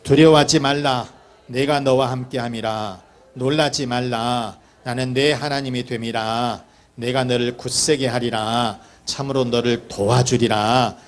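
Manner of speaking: low, measured reading of scripture. A narrator's reading. Preacher reading God's promise to the congregation, measured scripture reading.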